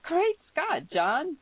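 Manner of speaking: put-on high, loud astonished girl; startled girl, voice leaping up; shocked exclamation. Girl shocked by his plan.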